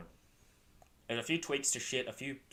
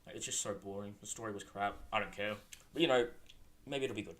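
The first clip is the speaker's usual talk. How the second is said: talking while chewing gum; 3 semitones lower than usual. Real, not acted. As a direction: chew gum through the words. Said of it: "Sorry, I'm chewing gum right now".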